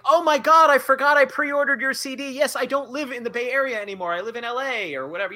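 high, loud gush of excitement; star-struck rush on the phone; excited fan. Retold or imitated. Fan answering his idol's call, gushing and excited.

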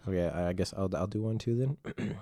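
whispered aside. Real, not acted. Aside before performing.

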